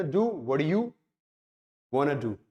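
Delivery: "want to" run together as "wanna"; native-style reduction. Shown as a demonstration. Teacher showing students how natives read it, relaxed "wanna". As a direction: say "wanna do" as a native speaker would. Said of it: "native speaker से इसको पढ़ते हैं".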